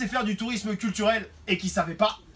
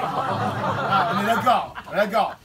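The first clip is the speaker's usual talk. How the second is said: laughing agreement; 3 dB louder than usual. Real, not acted.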